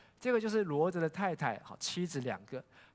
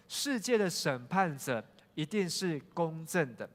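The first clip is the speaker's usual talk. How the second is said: slow group reading. Shown as a demonstration. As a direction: read it together slowly, word by word. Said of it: "我们一起来把亚伯拉罕他说的一起来读". (带领会众一起慢慢朗读)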